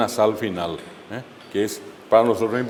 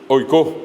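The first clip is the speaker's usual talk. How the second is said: oicó with the final Ó hit harder; stress on final O; 3 dB louder than usual. Shown as a demonstration. Teacher showing a Guaraní accent, stressed final O in oicó. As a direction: stress the last syllable of oicó. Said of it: "el acento está en la O".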